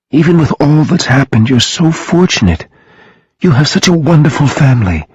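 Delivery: high-pitched, wistful envy; deep envy. A narrator's reading. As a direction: keep it high and full of envy. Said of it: "with all the envy in her heart".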